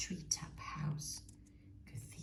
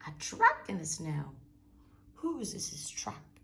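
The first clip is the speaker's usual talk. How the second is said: loud exclaim; 6 dB louder than usual. Acted. Owl-like creature finds track.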